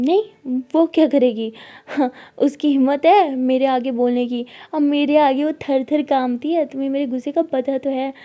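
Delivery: loud bragging bluster; boastful bluster. Acted. Sara loudly bragging to Tara. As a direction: puff yourself up.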